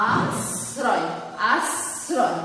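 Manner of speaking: আশ্রয় with the middle s held long; pronunciation demo. Shown as a demonstration. Teacher showing how the spelling is really pronounced, pronunciation demo. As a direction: say আশ্রয় in two parts, আস and রয়. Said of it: "আশ্রয় উচ্চারণ করছি যখন".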